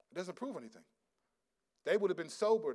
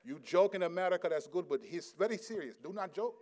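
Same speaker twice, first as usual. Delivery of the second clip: lightly imitated Indian accent, earnest; serious admonishment in an Indian accent. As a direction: Indian brother correcting a visitor, imitated. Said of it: "That's how he talked to me".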